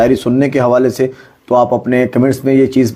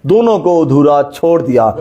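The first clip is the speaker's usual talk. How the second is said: poem recitation; 3 semitones higher, slower than usual. Acted. Host recites Faiz poem.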